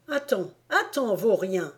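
mother Yeager yelling from her window; crying out. Acted. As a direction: shout after the runaway boy. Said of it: "s'écrie-t-elle".

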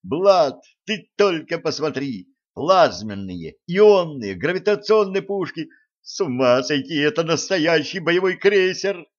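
high, loud excited gushing; thrilled. A narrator's reading. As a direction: rave about the guns like a kid. Jim raving about the guns.

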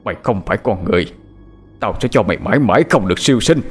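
quick, restrained growl of hatred; resentful growl. Acted. Husband cursing his dead wife, resentful growl. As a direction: growl out a curse in a changed voice. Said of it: "gầm lên những câu oán hận".

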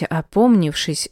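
usual speaking voice

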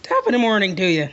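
quick attempt at an Irish accent; half-hearted Irish accent, about to crack up. Shown as a demonstration. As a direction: try a stock Irish greeting, breaking into laughter. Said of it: "I want you to do an Irish accent".

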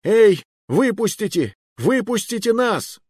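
high, loud shouting through a door; loud pleading yell. A narrator's reading. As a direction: bang and yell to be let out. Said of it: "колотить дверь и орать".

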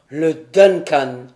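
loud, slow despairing cry; exclaimed in despair. A narrator's reading. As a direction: cry out the ship's name in horror. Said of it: "s'écria Glenarvan".

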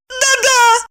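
high, tearful eager yes; eager agreement. Acted. Maya confirming eagerly to friends, high tearful. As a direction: grab onto it, high and urgent. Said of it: "подтвердила Майя".

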